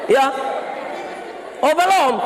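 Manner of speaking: high, sustained sermon shout; full-force preaching. Real, not acted. Pastor exhorting the neighbourhood head about marriage, full-force preaching. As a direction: preach it out, stretching the phrases.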